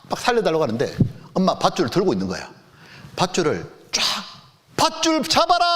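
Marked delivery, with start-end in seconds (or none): 4.8-5.7 calling out. Retold or imitated. Mother calling to drowning child.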